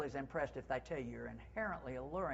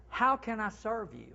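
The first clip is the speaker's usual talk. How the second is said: higher, bright eager offer; eager service; 5 semitones higher, 3 dB louder than usual. Shown as a demonstration. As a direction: sound keen to serve.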